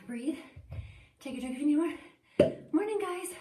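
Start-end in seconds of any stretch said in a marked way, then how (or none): 1.2-3.3 bright call-out. Real, not acted. Coach calling out mid-workout.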